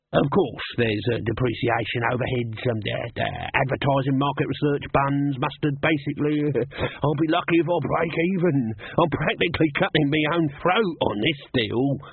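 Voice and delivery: oily salesman pleading; hustler pleading poverty. Acted. Dibbler excusing himself.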